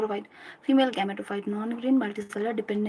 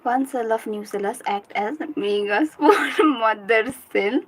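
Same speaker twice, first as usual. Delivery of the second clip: laughing while reciting; 4 dB louder, slower than usual. Real, not acted. Giggling through memorised line.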